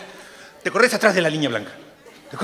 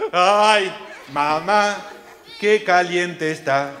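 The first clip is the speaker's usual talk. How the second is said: playful yelp, louder; mock cry of pain; 3 dB louder, slower than usual. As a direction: yelp it like a burnt seat. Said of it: "empezó a gritar". (grito de juego de niño quemado)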